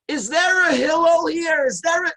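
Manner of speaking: high, loud shout at the house; screaming in the street. Retold or imitated. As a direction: yell up at the windows, high and loud. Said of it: "he's screaming in the street".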